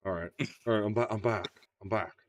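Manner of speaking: put-on low Southern crooner accent, lightly done; Nicolas Cage. Actor answering his director, low crooner-tinged Southern accent. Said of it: "you're starting to sound like Elvis".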